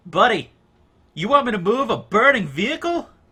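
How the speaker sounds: put-on light, very high, loud man's voice, slight New York accent. Narrating a scene, then voicing a man's reply; slight new york accent. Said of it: "slightly New Yorker guy".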